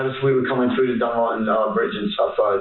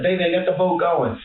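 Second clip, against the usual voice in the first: retold scream; 7 semitones higher than usual. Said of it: "I screamed to her".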